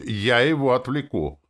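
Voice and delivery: high, loud heroic shout; a daring battle cry; bold cry. A narrator's reading. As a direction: throw yourself in to distract the beast. Heroine flashes chest, cries out.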